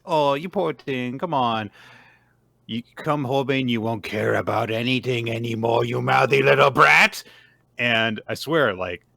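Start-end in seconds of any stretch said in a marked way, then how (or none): 0.0-7.2 put-on creature voice, building to a shout; taunting cuddle tapir. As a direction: coo mockingly, then lash out loud and higher. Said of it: "little cuddle time. Tapir says".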